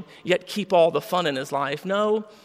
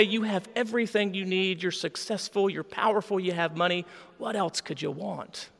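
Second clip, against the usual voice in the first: quiet tempting voice; 6 dB quieter than usual. Acted.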